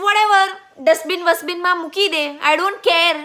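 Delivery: rude dismissal. Retold or imitated. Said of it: "So, Higgins says". (તોછડાઈથી, બેદરકાર અવાજે)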